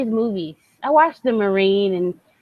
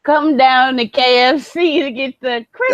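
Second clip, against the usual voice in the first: hammed-up shouting pitchman, mock Flair; Ric Flair ad impression; 3 semitones higher, 4 dB louder than usual. Host imitating Ric Flair's chicken ad, shouted. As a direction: yell the ad like a wrestler hyping fried chicken. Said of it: "best thing Ric Flair's ever done".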